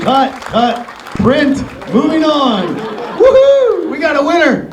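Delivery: hammed-up director calling cut and print; playful on-set director shout; mock film director. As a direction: play the director wrapping the take.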